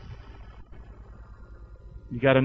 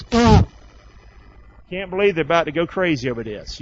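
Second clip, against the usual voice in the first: lightly voiced God; slower than usual. Voicing God's amused view.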